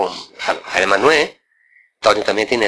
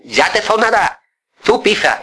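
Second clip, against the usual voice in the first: demanding uncle ordering him to press the string, high; high stern uncle; 9 semitones higher than usual. Retold or imitated.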